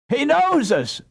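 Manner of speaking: very high, loud cry; joyful scream. A narrator's reading. Wife screaming with joy at her husband's recognition. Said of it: "screamed Dame Brinker".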